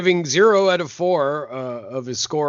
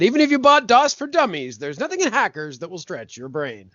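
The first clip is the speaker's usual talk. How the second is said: newscaster; 3 semitones higher than usual. Acted. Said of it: "read it like a newscaster".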